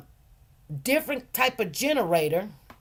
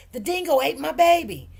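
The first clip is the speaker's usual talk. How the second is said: quoting the famous line; 5 semitones higher, 3 dB louder than usual. Retold or imitated. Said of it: "when she said".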